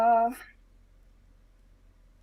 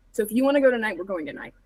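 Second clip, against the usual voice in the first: louder, pressing the point; firm insistence; 6 dB louder than usual. Acted. Arlo urging Silas to make the call, firm and louder. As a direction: push him to decide.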